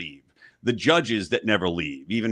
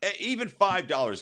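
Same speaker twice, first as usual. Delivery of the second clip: carnival barker; 11 semitones higher than usual. Acted. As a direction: hype the crowd like a barker. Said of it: "We're doing the carnival thing".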